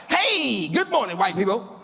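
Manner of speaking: yelled good morning at the joggers; cheerful yell. Retold or imitated. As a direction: call out across the street, bright and high. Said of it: "And I yelled out".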